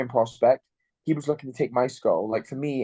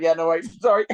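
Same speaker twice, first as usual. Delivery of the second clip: high, loud giggly sorry; laughing apology; 5 semitones higher, 4 dB louder than usual. Retold or imitated. Fighter voicing corner coach, breaking into laughter. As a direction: laugh through a cheeky apology.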